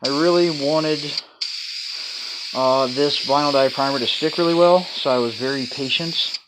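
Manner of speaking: speaking through a respirator; muffled by respirator. Real, not acted. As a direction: voice dulled behind a mask. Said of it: "I am wearing a respirator".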